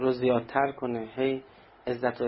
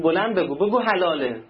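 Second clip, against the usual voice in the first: threatening demand; 4 semitones higher, 7 dB louder than usual. Retold or imitated. Thief demands shopkeeper say it louder.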